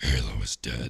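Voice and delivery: extremely rough, gravelly voice. Recalling how auditioners read a line for the role, super gravelly Batman voice. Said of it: "go in like a super gravelly like Batman voice".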